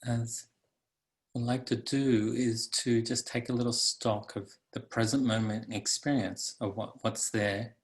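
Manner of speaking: calm, unhurried meditation guide; guided meditation. Acted. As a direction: guide listeners into the body, leaving long pauses.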